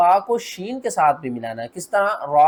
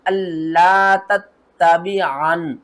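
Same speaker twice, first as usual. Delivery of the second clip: slow tajweed with long held vowel; Quran recitation demo; 3 dB louder, much slower than usual. Shown as a demonstration. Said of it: "इनको किस तरह पढ़ना है". (धीमी, खींची हुई तिलावत)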